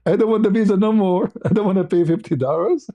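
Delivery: high, laughing refusal to pay; laughing protest. Retold or imitated. Refusing the embassy fee to the clerk, high and laughing.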